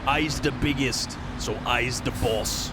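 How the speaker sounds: slow, lightly voiced Cockney orc boast; a hint of a Cockney orc boss, slowed down. Streamer quoting orc war boss logic, light slow Cockney accent. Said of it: "they speak with a Cockney accent".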